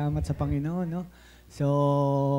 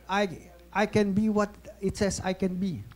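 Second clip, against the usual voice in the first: slow, higher-pitched recited declaration; Joel Osteen; 4 semitones higher, slower than usual. Retold or imitated. Preacher leading the church in his Bible confession, slow declaration. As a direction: draw out each phrase like a congregational creed. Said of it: "Ano sabi ni Joel Austin?".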